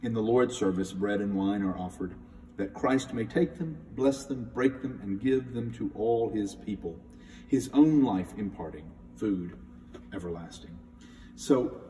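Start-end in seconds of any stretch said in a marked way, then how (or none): 0.0-10.7 measured reverent reading, fading at the end; hymn text reading. Shown as a demonstration. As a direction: read the Eucharistic verse gently. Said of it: "And the fourth verse".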